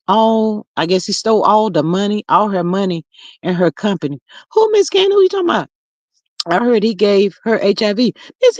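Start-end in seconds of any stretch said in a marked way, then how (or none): 4.5-5.7 much higher, puzzled; confused surprise. Real, not acted. Asking a viewer who she means, puzzled.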